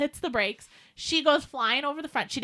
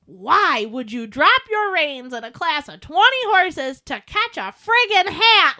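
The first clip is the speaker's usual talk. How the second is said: 1 upset scolding; 5 dB louder, slower than usual. Retold or imitated. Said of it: "I'm, like, all upset".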